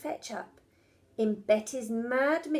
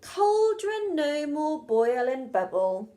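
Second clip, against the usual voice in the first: commanding spell; 3 semitones higher, 4 dB louder than usual. Acted. Mum casts the stopping spell.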